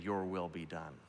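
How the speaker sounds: soft and low; hushed prayer. Acted. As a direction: murmur it reverently.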